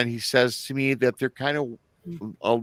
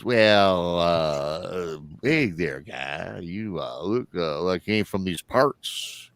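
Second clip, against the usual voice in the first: a lightly put-on Southern drawl of a gas station clerk; casual Southern accent greeting a stranger; 4 semitones lower, 3 dB quieter, slower than usual. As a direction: play the friendly backwoods clerk with a hint of Southern twang, low. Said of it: "that southern voice text".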